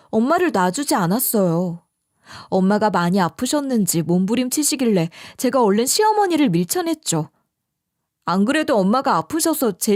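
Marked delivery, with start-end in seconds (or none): none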